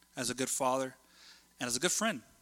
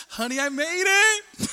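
high, drawn-out triumphant call; mock-triumphant high holler; calling out to honey; 12 semitones higher, 7 dB louder, slower than usual. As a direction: sing it out loudly to your spouse. Acts calling out to spouse.

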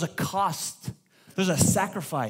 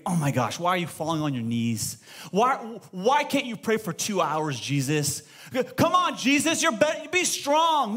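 mock impatience. Preacher mimics an angry Father nagging Jesus, mock exasperated. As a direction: play a fed-up coach, pushing harder.

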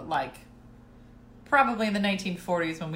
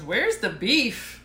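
grandma's catchphrase; 2 semitones higher, 5 dB louder, much slower than usual. Retold or imitated. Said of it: "She goes".

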